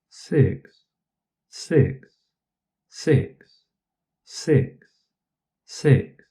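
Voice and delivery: each six stretched with smooth long voicing; long phonation six. Shown as a demonstration. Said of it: "how we turn the word six ... into a black dot".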